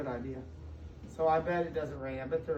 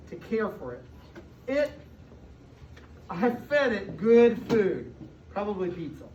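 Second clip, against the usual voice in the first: expressive storybook read-aloud to a class; reading to children. A narrator's reading. Teacher reading a picture book to her class, storybook voice.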